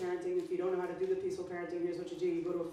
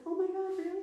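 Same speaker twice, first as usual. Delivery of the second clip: mock delight; 12 semitones higher than usual. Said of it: "And I was like".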